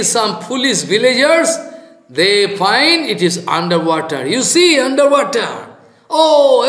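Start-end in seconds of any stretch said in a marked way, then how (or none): 4.3-6.6 high, laughing mock exclaim; laughing at fools. Preacher laughs voicing villagers who see the necklace underwater. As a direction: chuckle at the silly discovery.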